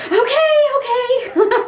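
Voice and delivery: high, drawn-out mock-exasperated okays. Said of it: "and I was like".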